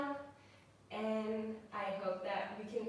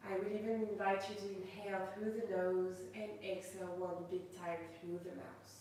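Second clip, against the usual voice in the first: guided meditation. Acted. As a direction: ease the class gently into stillness. Leads a yoga meditation.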